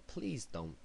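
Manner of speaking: put-on train announcement slipping into an American accent; lightly American-accented announcer. Imitating the Tube speaker announcement, American accent. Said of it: "saying it in an American accent".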